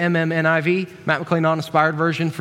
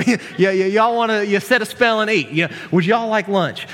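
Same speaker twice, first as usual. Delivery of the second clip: folksy West Virginian invitation; West Virginian accent; 3 semitones higher than usual. Acted. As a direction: play the host with a West Virginian twang. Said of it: "he must have been a West Virginian".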